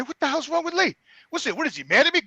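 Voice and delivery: mildly worked-up self-quote; retold upset. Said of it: "I'm getting all mad and upset".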